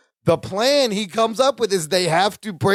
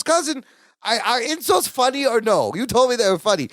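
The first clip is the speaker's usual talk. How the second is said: mock Balky; 7 semitones higher than usual. Voicing Balky confused.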